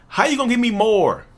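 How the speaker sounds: lightly voiced child talking back; crying child. Child answering the threatening parent, mock protest.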